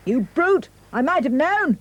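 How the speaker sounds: high indignant piglet cry; piggy cries. A narrator's reading. Pig crying out at the wolf, high and outraged. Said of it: "Pig cried".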